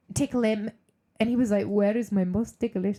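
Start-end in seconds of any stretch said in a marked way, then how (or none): 1.6-2.9 bad, attempted, put-on Italian accent. Retelling what a client asked while being tickled: attempted Italian accent. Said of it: "I can't do an Italian accent".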